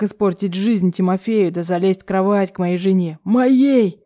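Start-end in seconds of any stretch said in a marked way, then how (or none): 3.2-4.0 raised, almost yelling; father losing his temper, almost yelling; near shouting. A narrator's reading. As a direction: nearly shout the word. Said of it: "уже чуть ли не кричит".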